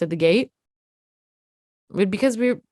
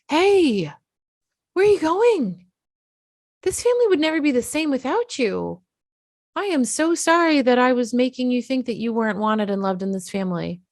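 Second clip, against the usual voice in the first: high, pleading and earnest, much higher; pleading parent; 4 semitones higher than usual. Retold or imitated. Parent chasing runaway kid at the gate, pleading high. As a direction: beg the child to stay like a desperate parent. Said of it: "chasing them down and going".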